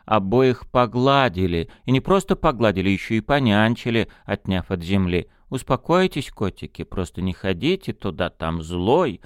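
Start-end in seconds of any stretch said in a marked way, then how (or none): 5.5-9.2 gently calm frightened kittens; tender. Acted. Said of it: "Ласково подтолкнули".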